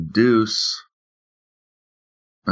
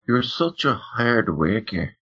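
put-on Irish accent; 2 semitones higher, 5 dB quieter than usual. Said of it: "I play her as an".

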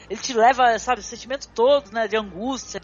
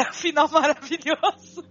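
laughing; 4 semitones higher than usual. Real, not acted. Laughing while praising the ending.

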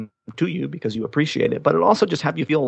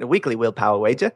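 mangled Australian accent attempt; faster than usual. Shown as a demonstration. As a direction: try a rough Australian accent. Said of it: "I could try doing an Australian accent".

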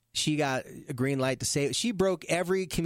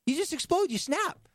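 emphatic; 11 semitones higher than usual. Real, not acted. Echoing listener emphatically.

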